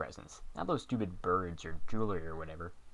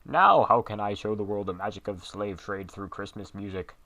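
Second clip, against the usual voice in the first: loud, put-on villain voice; unmasked villain voice; 5 dB louder than usual. Unmasked Saint Nicholas gloating at his captor, loud. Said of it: "Jolly old Saint Nicholas".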